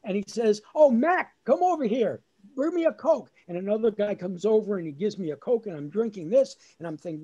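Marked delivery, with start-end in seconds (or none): 0.7-3.3 imitated dad hailing a vendor, higher; yelling out. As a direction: call out across the stands. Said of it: "my dad yells out".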